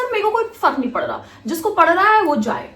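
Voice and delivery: retold fed-up defiance; defiant retort. Acted defiant answer to the professor.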